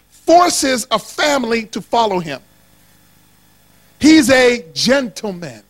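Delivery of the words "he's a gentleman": slow, mock-British delivery; measured British gentleman's accent. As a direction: put on a playful British accent, drawn out. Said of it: "He's British".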